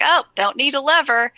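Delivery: brushing off the fuss; lightly voiced dismissive companion. Companion voiced in retold scene.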